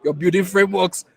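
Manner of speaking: impatient wife. Retold or imitated. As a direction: cut him off like an exasperated wife. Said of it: "and she said".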